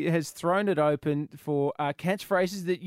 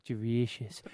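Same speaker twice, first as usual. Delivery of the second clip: lower, softer mock echo; quiet low echo; soft, low delicious; 7 semitones lower, 7 dB quieter, slower than usual. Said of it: "she goes".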